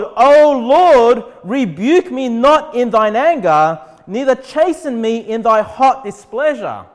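loud, earnest plea to the Lord; pleading prayer read. Acted. Preacher reading to the church, David's loud plea to the Lord. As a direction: cry out the verse as David begging.

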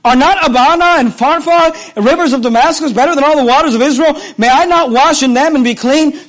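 understated outrage in a preacher's reenactment; in a rage. Acted. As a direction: protest like an affronted man, a little heated. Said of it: "went away in a rage".

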